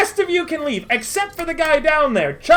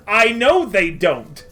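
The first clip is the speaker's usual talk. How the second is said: resigned; 3 semitones lower, slower than usual. Acted. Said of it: "Merritt turns to them and says".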